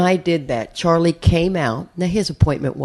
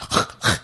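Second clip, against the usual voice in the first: mimed bursts of nasal spray; nose spray sniffs; 6 dB quieter than usual. Retold or imitated. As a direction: imitate quick squirts and sniffs of nose spray. Mimics his constant nose spray.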